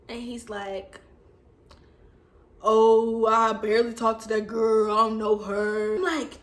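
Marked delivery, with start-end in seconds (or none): 2.6-6.0 mock boyfriend denial, loud opening; retold denial, lightly put on; lightly voiced boyfriend. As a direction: play a hint of the dodging boyfriend. Boyfriend's denial acted in a story.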